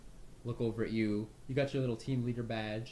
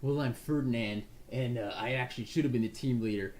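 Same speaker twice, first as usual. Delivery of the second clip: slow, louder, cocky; smug disdain; 4 dB louder than usual. Acted. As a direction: look down on the new leader. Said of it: "arms crossed".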